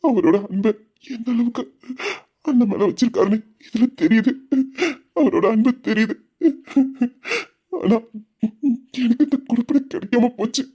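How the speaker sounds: halting, tearful longing; crying. Acted. Veera watching his father favour his brother, crying. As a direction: break up the phrases with small sobs. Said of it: "வீரா அழுதுகிட்டு தானே இருக்கான்".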